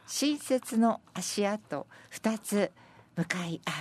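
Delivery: slow, spaced verse reading that settles at the end; senryu recitation. Acted. Presenter reading senryu about two sets of footprints, slow recitation. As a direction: linger over each phrase of the poem.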